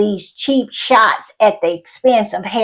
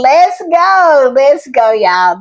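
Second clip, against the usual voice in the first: excited cheer; 3 semitones higher, 3 dB louder, slower than usual. Real, not acted. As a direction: cheer her on with a yell. Cheering for fan's VIP ticket.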